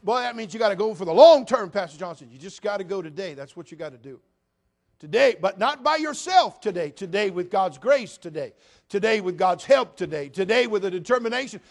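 pulpit-pounding build-up; preaching build. Acted. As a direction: drive it home to the congregation. Preaching rising to full force.

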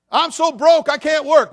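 mock whiny voice; whiny excuse. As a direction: whine it like a lazy excuse-maker. Mocking absurd excuse.

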